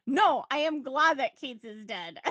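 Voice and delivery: slow, loud, emphatic retort; mock-emphatic, loud and drawn out; retold correction. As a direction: imitate a firm correction, each word weighed. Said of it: "Remember when he corrected".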